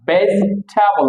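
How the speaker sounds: ভেজিটেবল squeezed to "bes-thabol"; corrected pronunciation. Shown as a demonstration. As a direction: say ভেজিটেবল as "BES-tha-bol", aspirated th. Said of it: "আমরা বলি ভেজিটেবল না".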